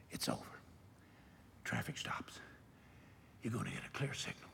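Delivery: very soft, near-whispered pronouncement; quiet solemn promise; hushed. Retold or imitated. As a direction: lean in and hush it.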